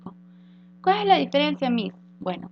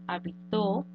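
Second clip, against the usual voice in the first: "habitó" said as ha-BI-to, middle syllable stressed; 2 semitones lower, 6 dB quieter, slower than usual. Shown as a demonstration. Teacher giving the second example, "habitó" stressed on middle BI. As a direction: lean on BI in "habitó".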